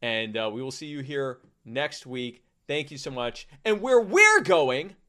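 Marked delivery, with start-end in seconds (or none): 3.6-5.0 loud, high, drawn-out sign-off; calling out catchphrase. Pretend. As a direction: belt out the show's closing line slowly. Signing off with a catchphrase.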